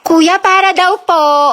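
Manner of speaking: slow, clearly projected call to the driver. Acted. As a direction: call it out for her. Relaying the stop call for her.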